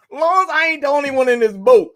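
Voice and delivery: laughing, high and loud. Real, not acted. Friend laughing while admitting he's lost too.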